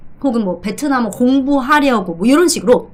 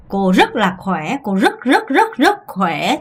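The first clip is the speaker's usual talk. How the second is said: laughing; much slower than usual. Real, not acted. Teacher answers, laughing.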